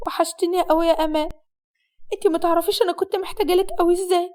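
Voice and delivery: mildly tearful, full of longing. Acted. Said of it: "كانت بتعيط جامد ومتأثرة". (بصوت متأثر وفيه دموع)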